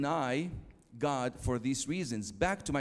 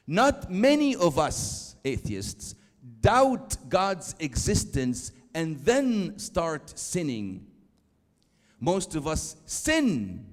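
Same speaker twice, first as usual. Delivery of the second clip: very slow, loud and deliberate; slow, emphatic reading of a quote; 3 semitones higher, 6 dB louder, slower than usual. Shown as a demonstration. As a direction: read it out word by word, slowly. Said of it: "I'll read it very slowly".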